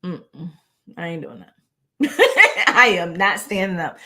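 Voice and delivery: mock-defiant refusal that breaks into a laugh. Viewer refusing to stand up, laughing and sassy. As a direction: sass the teacher, then laugh it off. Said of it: "if you're like".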